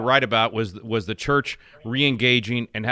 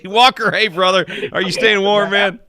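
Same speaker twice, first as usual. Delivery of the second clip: loud, higher hearty hail to a friend far away; calling out; 8 semitones higher, 7 dB louder than usual. Real, not acted. Host hails cohost out in the cold, loud and hearty. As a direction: call across to him, big and friendly.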